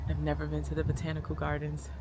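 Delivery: hushed confession, barely voiced; whisper. Real, not acted. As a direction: whisper it like a secret. Confiding whisper.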